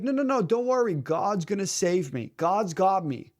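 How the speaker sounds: lightly acted believer waving help away; insistent refusal. Stranded man refuses the pilot's rescue, blithely insistent.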